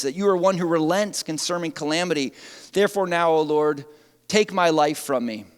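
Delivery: Jonah's angry despair. Acted. Jonah begs God to take his life, loud then fading. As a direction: rage that sinks into wishing for death. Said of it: "and he became angry".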